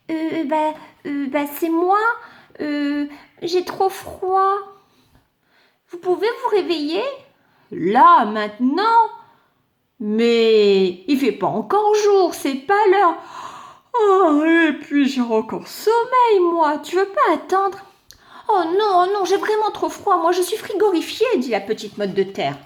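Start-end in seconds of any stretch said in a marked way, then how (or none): 0.1-4.5 a slightly higher, timid little voice; small voice. Acted. Shy clod answering the big sun in a small voice. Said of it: "avec sa petite voix". 5.9-17.8 higher, louder sleepy whine; whiny sleepy sun. Acted. The sun whining to the clod, still sleepy. 18.5-21.3 higher, quick pleading voice; pleading clod. Acted. The clod begging the sun, higher and quick.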